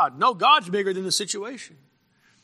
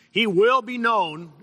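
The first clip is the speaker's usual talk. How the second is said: He will be known with will pushed up, slow and louder; stress on will; 5 semitones higher, 4 dB louder, slower than usual. Acted. Preaching to his church, stress on will.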